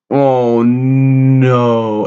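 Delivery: loud, drawn-out horrified oh no; shocked dismay. Real, not acted. Fan seeing Sophia come out of the barn, loud shock. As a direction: gasp it out in disbelief.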